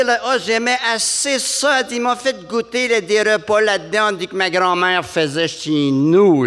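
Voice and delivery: very high, gushing lady; Montréal lady. Retold or imitated. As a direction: gush with delight. Lady gushing about visit.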